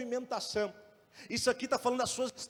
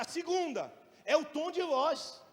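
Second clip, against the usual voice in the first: normal talking voice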